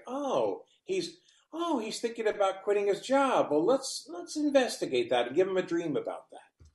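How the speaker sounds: a hint of a helper hatching an idea; subconscious musing. Voicing the subconscious musing aloud.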